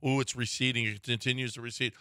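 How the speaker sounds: softly fretting at the mirror; mock morning dismay. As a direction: murmur it low, as if to yourself. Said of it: "waking up every morning and going".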